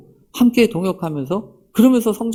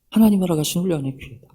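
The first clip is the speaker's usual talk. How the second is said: 하나님이 허락하신 훈련의 기회다 said fast at normal pitch; quick restatement; faster than usual. Real, not acted. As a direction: rattle off the summary line quickly and matter-of-factly. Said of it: "quick restatement of the same line". (빠르게 정리하듯 말하기)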